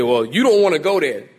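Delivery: a light mock of people brushing it off; sassy slang. Preacher mimics people dismissing hell, lightly sassy. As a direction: toss it off like a dismissive catchphrase. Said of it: "people say".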